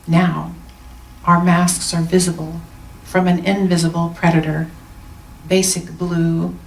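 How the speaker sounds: measured recital with pauses between phrases; poem reading. Acted. Minister sharing a colleague's poem in closing, measured recital. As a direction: read it as verse, line by line.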